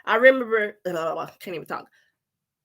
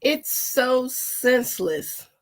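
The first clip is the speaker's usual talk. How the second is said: choked up; 4 semitones higher, slower than usual. Real, not acted. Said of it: "I can't even talk".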